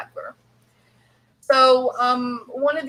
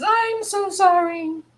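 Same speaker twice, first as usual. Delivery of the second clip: mock contrite; 12 semitones higher, 4 dB louder than usual. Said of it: "Then she says".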